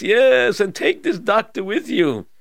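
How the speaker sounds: high, loud royal command; king voice. Acted. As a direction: bark the order as a king.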